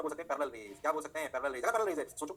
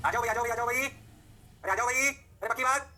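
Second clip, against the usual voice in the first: high, rising call to the class; rally them with lifted, drawn-out endings; 4 semitones higher, slower than usual. Real, not acted. Teacher calling students to come along, high rallying call.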